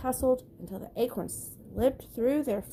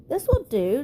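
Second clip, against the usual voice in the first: grinning Donald; 5 semitones higher, 7 dB louder than usual. Acted. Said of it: "Donald grinned".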